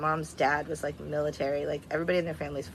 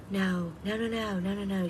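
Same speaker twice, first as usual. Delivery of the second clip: imitated urgent objection, pitched higher; retelling an aunt's rapid string of objections; insistent refusal; 4 semitones higher than usual. Aunt answering niece about the burial, insistent refusal.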